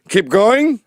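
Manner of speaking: mock director calling out; loud directing call. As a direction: urge the performer on loudly. Directing the parodied candidate.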